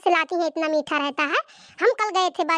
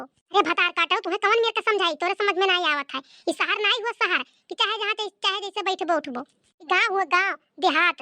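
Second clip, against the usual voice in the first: scolding mother-in-law. Acted. Mother-in-law scolding her daughter-in-law, lightly voiced. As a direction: play the nagging village saas.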